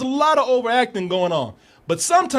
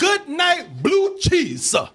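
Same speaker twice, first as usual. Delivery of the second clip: hammed-up line; 9 semitones higher, much slower than usual. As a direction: overplay the actor's odd line. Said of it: "He says".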